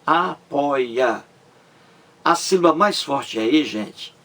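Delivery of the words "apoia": apoia split into a-poi-a; syllable by syllable. Shown as a demonstration. Teacher showing three syllables, apoia broken up beat by beat. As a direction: sound out apoia in three separate beats. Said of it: "São três sílabas".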